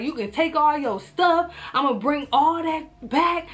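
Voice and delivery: mad. Retold or imitated. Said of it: "I'm mad".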